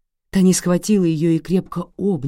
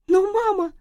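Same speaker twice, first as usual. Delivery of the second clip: put-on much higher girl trailing off; child's protest.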